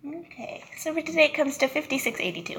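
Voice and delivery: polite receptionist tone, a little fast; customer service voice. Real, not acted. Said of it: "Do you like my customer service voice".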